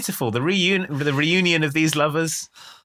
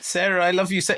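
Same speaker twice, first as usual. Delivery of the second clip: higher, hammed-up declaration of love; unconvincingly sad; 5 semitones higher than usual. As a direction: imitate a bad actor faking grief. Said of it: "it sounds so unconvincing".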